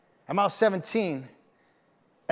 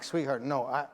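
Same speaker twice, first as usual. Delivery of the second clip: through tears; 4 semitones lower, 8 dB quieter, slower than usual. Real, not acted. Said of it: "through the tears".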